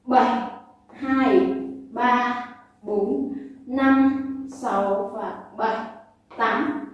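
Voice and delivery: called beat counting; counting workout reps. Shown as a demonstration. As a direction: count the rhythm aloud. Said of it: "Mình sẽ đếm nhịp nhé".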